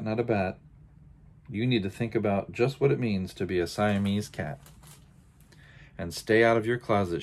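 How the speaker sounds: sing-song scolding list; lecturing mother. Acted. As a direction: rattle off the lecture, lightly stern. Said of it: "The lecture went on".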